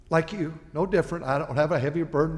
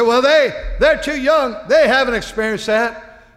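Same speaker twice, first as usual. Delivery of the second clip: higher, louder mocking voice; louder mock protest from a skeptical adult; mock objector; 10 semitones higher, 10 dB louder than usual. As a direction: play the doubter who waves it off.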